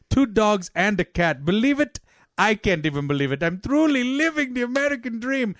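high, gushing Afghan father; proud Afghan-accented boasting, pitch leaping up. Acted. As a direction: brag excitedly in a hammed-up Afghan accent. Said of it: "Two families from Afghanistan".

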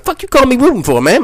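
high, fast, offended burst; hammed-up offended inmate; acted indignant objection. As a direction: demand it as if insulted. Inmate objects to being called Ruben.

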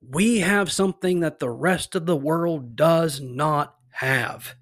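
deliberate, weighty declaration; emphatic proclamation that lands heavily at the end; emphatic, almost militant. Shown as a demonstration. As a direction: declare it firmly, leaning on each of the last words. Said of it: "it's very emphatic".

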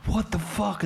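high-pitched mock yell; imitated yelling. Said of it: "Corey yells at him".

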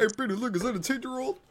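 high, eager calling to Peter; excited calling out. Acted. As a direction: point and call out to Peter. Acted call continuing the bit.

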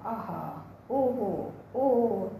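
a lost-in-bliss "आहा, ओहो, ओहो"; a touch of rapture on "ओहो"; delighted aha oho. Retold or imitated. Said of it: "मैं उच्चारण कर उठता हूँ".

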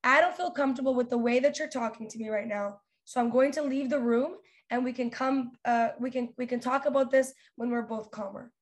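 calm, even boundary-setting; measured, polite firmness; nice tone. Shown as a demonstration. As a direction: state it kindly and evenly, without heat. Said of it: "say it in a nice tone".

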